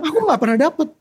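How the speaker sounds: stubborn retold prayer. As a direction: demand a sign, mock stubborn.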